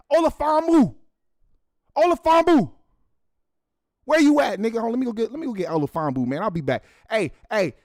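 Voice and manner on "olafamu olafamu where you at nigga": loud, high call across the house. Acted. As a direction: yell for the co-host to come. Calling out for his co-host.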